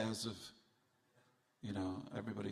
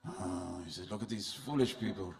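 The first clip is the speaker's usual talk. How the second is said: put-on French accent. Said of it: "It's my French accent".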